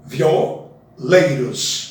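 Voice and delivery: slow "Violeiros" with vi and o merged; elided pronunciation. Shown as a demonstration. Teacher to students showing the elision, slowly. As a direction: glide "violeiros" into three sounds. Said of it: "Juntar o vi com o".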